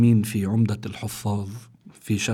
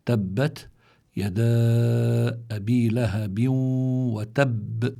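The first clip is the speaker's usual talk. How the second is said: slow, measured tajweed recitation with drawn-out vowels; Quran recitation; much slower than usual. Shown as a demonstration. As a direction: recite the verse, holding the long sounds and bouncing the last b.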